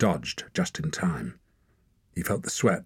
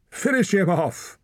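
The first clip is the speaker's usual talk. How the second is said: very high loud cry; bloodthirsty woman; 13 semitones higher, 3 dB louder than usual. A narrator's reading. Woman watcher screams for Hord to finish Torak. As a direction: scream for the kill.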